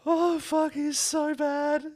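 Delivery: high laughing words; can barely speak for laughing. Real, not acted. Host cracking up because Dylan froze, laughing.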